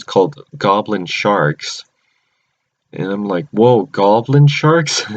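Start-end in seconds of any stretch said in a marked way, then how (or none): 3.5-5.0 slow, drawn-out wowed question; mock amazement. Viewer reacting to the shark creatures, playfully amazed. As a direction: act astonished, stretching the words out.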